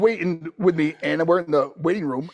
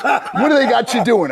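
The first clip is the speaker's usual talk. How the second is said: put-on loud, raised Brooklyn-accented question; Brooklyn dad; 5 semitones higher, 7 dB louder than usual. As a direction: imitate an excited Brooklyn father asking. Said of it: "my dad from Brooklyn, he goes, talks like this".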